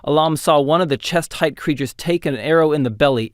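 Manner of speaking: ordinary delivery, nothing marked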